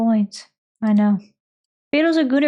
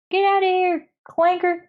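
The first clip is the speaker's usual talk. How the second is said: jeering heckler; 6 semitones higher than usual. Pretend. Robot heckler jeers.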